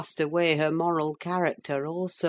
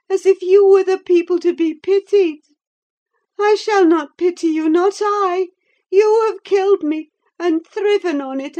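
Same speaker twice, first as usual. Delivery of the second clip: much higher, louder woman's voice, accusing; bitter dying heroine; 12 semitones higher, 9 dB louder than usual. A narrator's reading. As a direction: hurl the blame at him from her sickbed. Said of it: "said Catherine".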